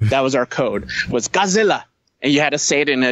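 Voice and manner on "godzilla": higher-pitched goofy mock Asian accent. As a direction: put on a silly imitation Asian accent. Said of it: "a goofy Asian voice".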